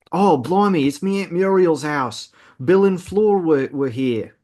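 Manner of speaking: put-on a clumsy British accent for Ron, bordering on Australian; a bad British accent that a listener hears as Australian; terrible British accent. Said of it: "That was a terrible British accent".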